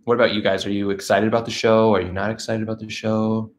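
usual speaking voice

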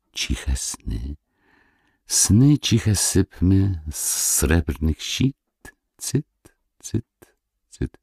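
slow, lilting recited chant with hushed refrains; drawn-out singsong verse, fading to a hush; whispered song. A narrator's reading. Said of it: "jakby wprost do duszy szeptane ... jakby śpiew".

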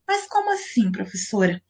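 a hint of a confused pupil; puzzled student. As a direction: softly ask the teacher, puzzled. Voices a student's puzzled question.

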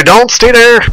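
high, urgent shouted order. Real, not acted. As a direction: yell it at the squad to move. Urgent orders under fire.

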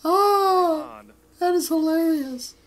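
high, laughing squeal. Real, not acted. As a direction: crack up while saying it. Cracking up at reading.

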